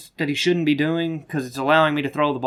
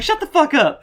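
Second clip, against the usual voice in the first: loud, high mock shout; retold yell of annoyance; imitated angry retort; 14 semitones higher, 6 dB louder than usual. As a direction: shout down a heckling friend. Gamer snaps back at friend, acted out.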